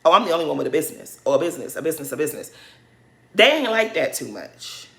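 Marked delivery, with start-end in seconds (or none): 0.0-2.5 mocking Lisa bragging. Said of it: "throws in their face that she has a business".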